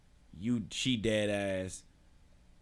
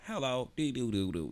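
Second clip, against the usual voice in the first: robot voice; 4 dB quieter than usual. Retold or imitated. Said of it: "He talk like a little robot".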